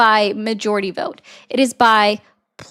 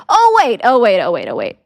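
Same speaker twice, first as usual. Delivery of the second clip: sarcastic oh wait. Acted. Sarcastic fake realization.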